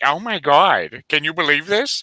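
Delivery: fully committed cartoon voice, slow and drawn out. Showing how far a Peter Griffin voice goes when fully committed: Peter Griffin voice. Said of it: "the Peter Griffin is, like, all the way when you actually commit".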